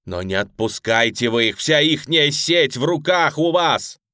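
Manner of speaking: loud, slow, desperate begging; pleading cry. Acted. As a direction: cry out, begging on your knees. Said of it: "умоляюще вскричал".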